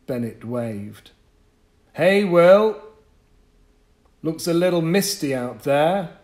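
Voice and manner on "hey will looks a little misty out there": much higher, louder call across the street; shouting. Acted. Paperboy passing, Bennett shouts a greeting across the yard. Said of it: "he shouted".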